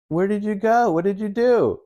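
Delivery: high mock voice of the wife, pitched well up; mock wife scolding. Wife demanding where he went, in a high mock voice. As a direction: play the fretting wife, squeaky and shocked.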